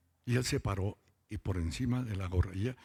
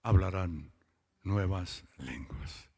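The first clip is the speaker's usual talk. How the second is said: scripture proclaimed; slower than usual. Real, not acted. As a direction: preach the verse out. Preacher quotes scripture with force. (proclamando el versículo con fuerza)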